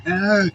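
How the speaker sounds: short mock cry; imitated crying. Shown as a demonstration. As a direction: mimic someone crying, briefly. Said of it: "If they crying, like".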